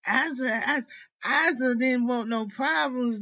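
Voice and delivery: worked-up and near crying; tearful rant. Real, not acted. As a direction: push the words out through tears. Heated rant, crying heard.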